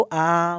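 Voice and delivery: आ held long with mouth fully open; open-mouth vowel. Shown as a demonstration. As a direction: stretch आ out, jaw dropped. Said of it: "पूरी तरह से आपका मुंह open". (पूरा मुंह खोलकर लंबा आ)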